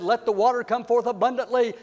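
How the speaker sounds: a touch of grand eloquence, dropping away at the end; eloquent. Shown as a demonstration. Preacher imagining Moses addressing the rock, mildly eloquent. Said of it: "become very eloquent and said".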